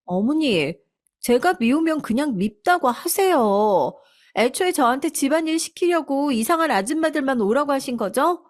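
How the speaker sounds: daughter-in-law lashing back at her mother-in-law; resentful daughter-in-law. A narrator's reading.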